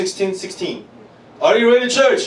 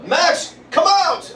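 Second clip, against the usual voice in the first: drawn-out high call, slowed right down; 12 semitones higher, 4 dB louder, much slower than usual. Shown as a demonstration. Pastor showing church how to call a brother's name, slow high call. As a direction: stretch the call to Max out slowly.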